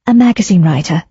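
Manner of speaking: firm, matter-of-fact "magazine writer"; affirming. Acted. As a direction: state it plainly, standing her ground. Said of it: "Daisy affirmed".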